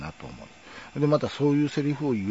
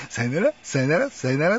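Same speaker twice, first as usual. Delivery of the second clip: higher mock sayonara with rising ra; sing-song the triple goodbye like the TV host; playful imitation of a famous farewell; imitating the sign-off; 5 semitones higher, 4 dB louder than usual. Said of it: "っていう".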